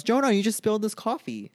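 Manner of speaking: mock accusing friend. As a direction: squeak the accusation like a shocked friend. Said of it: "Someone goes".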